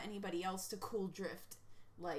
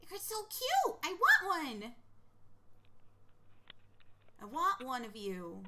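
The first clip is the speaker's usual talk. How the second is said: gushing; 4 semitones higher than usual. Real, not acted. Streamer sees cute sugar gliders, gushing. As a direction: squeal it, smitten.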